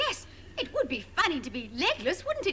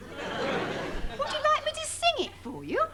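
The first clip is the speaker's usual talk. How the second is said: higher, sugary offer to sing; condescending presenter; 10 semitones higher than usual. Acted. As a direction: coo it down to the kids. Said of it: "very condescending the way they spoke".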